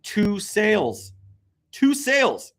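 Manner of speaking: can't believe it; incredulous. Real, not acted.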